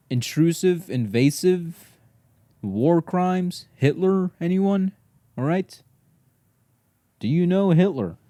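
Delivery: hammed-up indignant rant at the dog; mock outrage rant. Real, not acted. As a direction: build the absurd accusation. Ranting at the dog.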